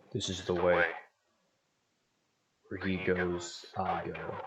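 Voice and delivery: filtered through a helmet radio; voice-changed Mandalorian helmet sound; inside a helmet. Real, not acted. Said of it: "if you want to hear yourself".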